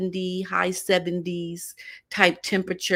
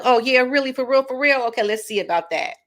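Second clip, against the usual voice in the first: sceptical mock reply; 7 semitones higher, faster than usual. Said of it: "and I was like".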